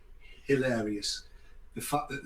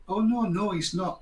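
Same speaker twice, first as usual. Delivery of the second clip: mock correction; 6 semitones higher, 5 dB louder than usual.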